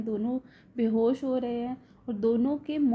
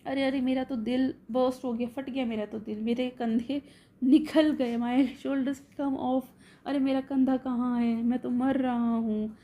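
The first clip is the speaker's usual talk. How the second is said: mock yelling. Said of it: "ये चिल्लाता है बड़ी ज़ोर ज़ोर से".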